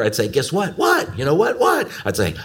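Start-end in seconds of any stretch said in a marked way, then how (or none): 0.3-0.8 higher, eager teasing question; building excitement. Retold or imitated. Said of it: "couldn't stand it any longer". 0.8-1.2 put-on very high, excited little-girl "what?"; bursting excitement. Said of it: "excitement began to build". 1.2-1.6 higher, eager teasing question; building excitement. Retold or imitated. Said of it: "couldn't stand it any longer". 1.6-1.9 put-on very high, excited little-girl "what?"; bursting excitement. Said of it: "excitement began to build".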